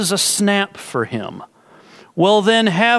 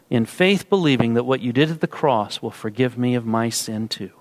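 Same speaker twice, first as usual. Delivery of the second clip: prayer. Acted. Pastor praying over seekers in the congregation, earnestly. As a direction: pray it gently for the listeners.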